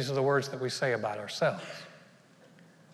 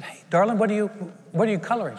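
sweet teacher voice; 5 semitones higher, 3 dB louder, faster than usual. Retold or imitated.

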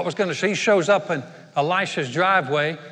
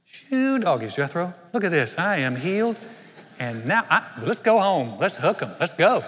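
hillbilly whoop. Retold or imitated. Hillbilly exclamation of being healed.

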